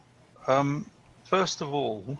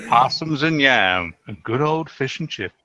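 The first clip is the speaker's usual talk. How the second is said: mock Southern accent; 8 dB louder than usual. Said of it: "I'm not going to do the accent".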